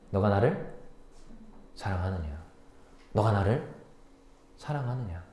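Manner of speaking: softly, with long pauses between phrases; Jesus softly asking Peter if he loves him; tender question. Acted. Jesus asks Peter gently.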